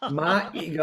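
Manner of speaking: badly done Texas accent. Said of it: "I know I just butchered the accent".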